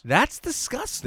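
loud, high disgusted cry. Real, not acted. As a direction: recoil in disgust, slowly. Repeats it louder, disgusted.

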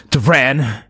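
mild angry yell; angry call. Acted. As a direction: call the name sharply, angry. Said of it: "You hear anger in his voice".

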